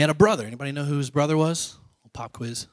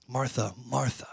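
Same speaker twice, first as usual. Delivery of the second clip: soft, compassionate calling of a name; softly voiced compassion; tender endearment; 8 dB quieter than usual. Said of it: "it's a term of endearment".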